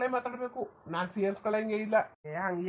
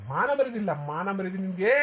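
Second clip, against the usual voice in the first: raised, outraged voice; furious father's rebuke; angry scolding; 2 semitones lower, 4 dB louder than usual. Acted. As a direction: shame him hard. Father berates his son.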